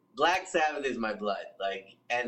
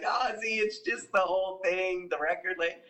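Sharon Osbourne; 4 semitones higher than usual. Retold or imitated. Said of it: "Sharon's just like".

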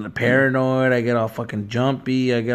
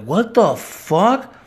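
panicked what the fuck; 6 semitones higher, much slower than usual. Retold or imitated. Retold panic while high.

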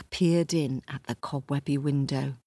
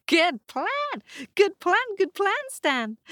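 much higher, brisk braying donkey; 4 dB louder than usual. Acted. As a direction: bray and chatter cheerfully. Donkey laughing.

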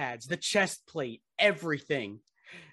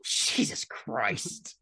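whispered disbelief; 5 semitones lower, much slower than usual. Real, not acted. Shocked reaction to joke.

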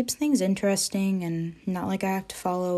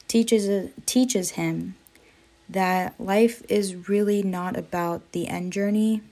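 stumbling, repeating words nervously; fumbling for words. Real, not acted. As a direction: trip over the words a bit. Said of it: "I'm stumbling over my words".

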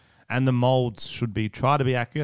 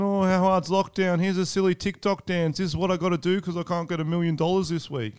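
mock celebrity whine; 5 semitones higher, 4 dB quieter than usual. Mocking celebrities' lockdown posts.

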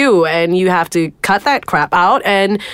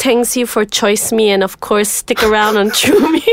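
lightly put-on Chinese accent; mock Chinese accent, understated. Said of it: "Is this your Chinese accent".

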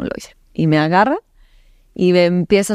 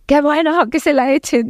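imagined onlookers; 10 semitones higher than usual. Retold or imitated. Voicing approving onlookers' imagined comment.

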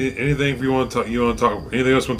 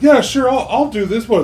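Bobby Flay voice; 10 semitones higher than usual. Retold or imitated. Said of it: "if he's like".

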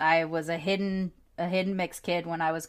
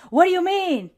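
higher, louder puzzled grandma; confused grandma; 11 semitones higher, 7 dB louder than usual. Retold or imitated. Grandma asks grandchild what strangers said, puzzled. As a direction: voice her as a baffled old lady. Grandma voiced in retold story.

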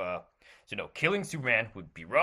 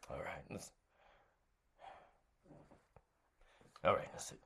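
whispering; 5 semitones lower, 14 dB quieter, faster than usual. Acted. Sneaking a secret phone call.

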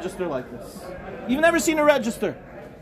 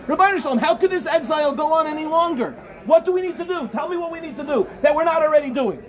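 raised, impassioned preacher's plea; preaching at full force; 3 semitones higher than usual. Acted. Rabbi pleading to the camp, preaching at full force. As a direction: stir the camp with fervent pleading.

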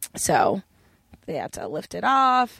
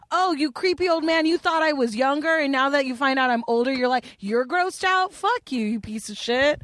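mock telling off; 4 semitones higher than usual. Retold telling off the creep.

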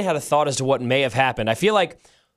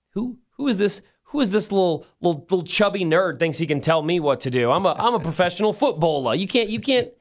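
scoffing footballer; 3 semitones higher than usual. Retold or imitated. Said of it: "full-grown men in that locker room who are gonna look like".

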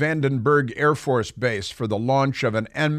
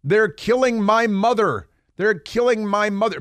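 mock wailing; 8 semitones higher than usual. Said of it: "crying and screaming at the top of their lungs".

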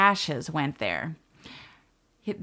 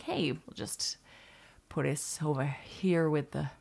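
quiet; 3 semitones lower, 7 dB quieter than usual. Acted. Trash voiced speaking.

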